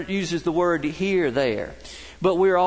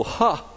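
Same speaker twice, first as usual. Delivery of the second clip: mock one-beat laugh; 4 semitones higher than usual. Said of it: "he'd just go".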